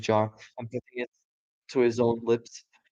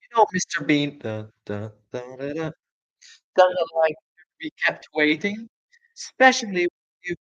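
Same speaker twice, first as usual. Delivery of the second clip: calling woman; 5 semitones higher than usual. Acted. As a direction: shout down from the house above. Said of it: "the voice called".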